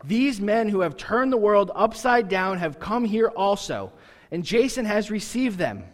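mock shouting crowd accusation; retold shout. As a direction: call it out like an angry mob.

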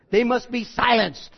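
lightly voiced godfather giving the order; Don Corleone. Preacher recasting Paul's words as a mafia hit, lightly voiced mob boss. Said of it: "if that was Don Corleone".

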